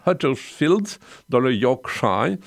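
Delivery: Yorkshire said with an English accent, drawn out. Shown as a demonstration. Radio host naming James Mason's birthplace, in an English accent. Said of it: "apprécier mon accent anglais".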